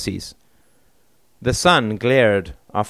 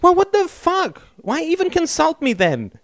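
high, raging voice; growled warning. A narrator's reading. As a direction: shout it in thick rage. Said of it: "his voice thick with rage".

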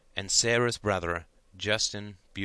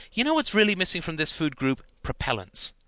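high, louder mock quote; mock inventor voice; 7 semitones higher, 5 dB louder than usual. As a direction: ham up the silly inventor. Mock quote inside Chris's quip.

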